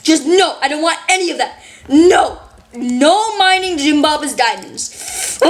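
high, slow, indignant yelling at a diamond thief; triggered yelling. Real, not acted. Gamer yelling at a kid who mined her diamonds, high and slow. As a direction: scold him, stretching every word. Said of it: "my voice is dying 'cause I was triggered".

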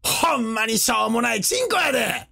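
lightly voiced grumbling Osaka geezer; mock old-man Osaka dialect. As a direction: put on a hint of a scolding Osaka grandpa. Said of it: "大阪弁のジジイみてえな".

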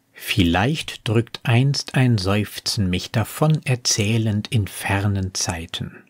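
slow, measured verse reading; poem recitation. Acted. Reciting the poem's lines on a future sigh, measured poetry reading. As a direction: recite the verse deliberately, without hurry. Quotes poem between commentary.

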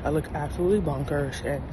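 slack numb mouth; talking through a numb face; numb from the dentist. Real, not acted. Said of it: "I cannot talk straight".

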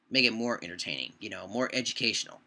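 hiccuping while talking. Real, not acted. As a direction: talk through hiccups. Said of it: "I'm hiccuping and coughing at the same time".

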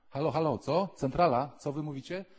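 high, loud calling into a bad line; phoning headquarters. Gideon calls heaven's switchboard, high and loud. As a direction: shout down the phone.

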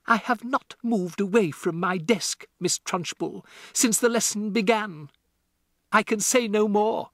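a hint of steady calm. A narrator's reading. Matilda answering the headmistress, mildly calm. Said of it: "said with total calmness".

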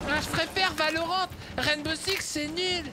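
mocking a clueless player. Voicing a new player's excuses to ridicule him, high mocking voice. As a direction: imitate a whiny beginner in a high put-on voice. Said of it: "Et du coup, tu t'es dit".

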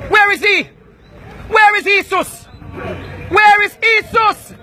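high taunting yell, drawn out at the end; shouting. Real, not acted. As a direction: stretch out the last Jesus mockingly. Taunting crowd, rising shout.

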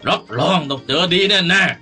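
angry master warning his servants; stern threat. Acted. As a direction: threaten them, with an indignant harrumph.

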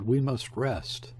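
slow, worn-out plea; weary. Acted. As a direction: drag it out, exhausted. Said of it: "let out an oath, and said".

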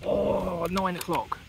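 shaky adrenaline voice, hushed; trembling with adrenaline after the shot; adrenaline shakes. Real, not acted. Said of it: "my hands are shaking like a leaf".

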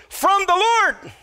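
From the Lord, high and slow, leaning on Lord; emphasis on Lord. Shown as a demonstration. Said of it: "I want to emphasize".

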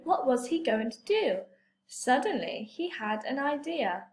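put-on lively read-aloud for young children; story reading. Teacher reading a picture book to her class, lively storytelling.

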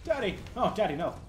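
high anguished cry of Daddy; mock distressed cry. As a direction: wail for Daddy in fake despair. Game character dragged off, crying out.

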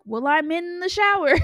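high, light mock dad voice; a hint of a calm father; imitating dad. Dad voiced answering from shower.

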